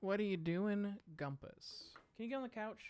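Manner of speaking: high sing-song coaxing, repeating the ask. Real, not acted. Streamer coaxing her dog onto the couch, high pet voice.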